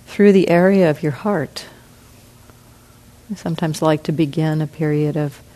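unhurried, with long pauses between phrases; guided meditation. Real, not acted. Meditation teacher settles the group into relaxing, guided meditation. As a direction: guide them gently, leaving room to breathe.

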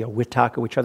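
Burmese accent, Vitakka Vichara with W. Shown as a demonstration. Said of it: "That's a Burmese accent".

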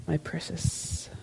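slow, soft, hushed creepy Gollum hiss on precious; Gollum impression. Teacher jokingly voicing Gollum's ring obsession, slow and hushed.

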